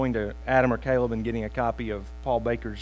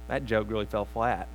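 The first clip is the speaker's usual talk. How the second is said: normal talking voice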